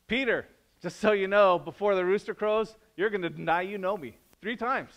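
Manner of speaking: casual Jesus. Retold or imitated. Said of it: "he says".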